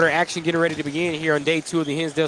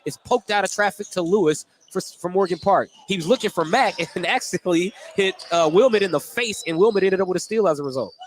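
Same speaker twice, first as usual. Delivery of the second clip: brisk courtside call of the action; steady announcer's game call; live play-by-play; 3 semitones higher than usual. Acted. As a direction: call each pass as it happens.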